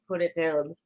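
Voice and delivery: robot voice, level and mechanical; booming metallic robot. Acted. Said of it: "in my robot voice".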